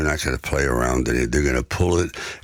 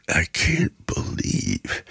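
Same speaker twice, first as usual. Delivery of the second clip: choked up; slower than usual. Retold or imitated. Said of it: "and I cried".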